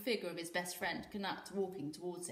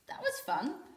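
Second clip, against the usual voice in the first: grinning; 7 semitones higher than usual. A narrator's reading. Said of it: "Volga said with a grin".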